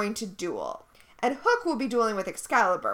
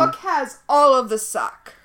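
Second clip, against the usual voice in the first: emphatic; 7 dB louder than usual. Real, not acted. Repeating verdict emphatically.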